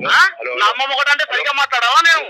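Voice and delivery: angry retort. Real, not acted. Retorting in anger.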